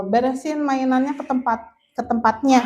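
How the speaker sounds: the don't-do-this version of a tidy-up order; wrong way. Shown as a demonstration. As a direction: toss the instruction off without warmth. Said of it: "Jangan kayak gini".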